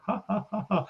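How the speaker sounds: breathy mocking ha ha ha; mocking laugh. Retelling a movie scene, a mocking laugh. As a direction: laugh down at him like the villain. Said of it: "he was like".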